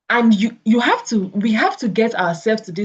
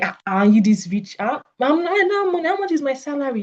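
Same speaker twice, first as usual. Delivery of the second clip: whiny complaint; 6 semitones higher than usual. Retold or imitated. Voicing a self-pitying worker.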